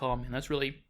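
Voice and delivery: burping. Real, not acted. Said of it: "oh, sorry, I'm burping".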